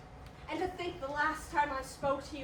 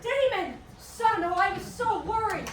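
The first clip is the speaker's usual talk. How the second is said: relieved cry; 4 semitones higher, 6 dB louder than usual. Acted. Father finds his son.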